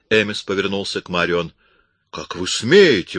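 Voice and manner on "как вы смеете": loud, slowed indignation; outraged at the insult; indignant. A narrator's reading. Accused woman protesting, indignant. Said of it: "возмутилась она".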